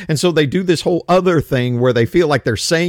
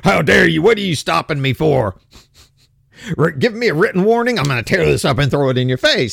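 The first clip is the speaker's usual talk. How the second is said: indignant mock outburst, pitched up at the start; mock belligerent. Host acting out driver refusing a written warning, mock belligerent. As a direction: play an outraged driver challenging a cop. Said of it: "be like a belligerent asshole".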